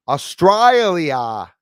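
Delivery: put-on stretched, loud, high "Australia" in an Aussie accent; mock Aussie accent. Greeting an Australian viewer, loud mock Aussie accent. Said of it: "Must be an Aussie".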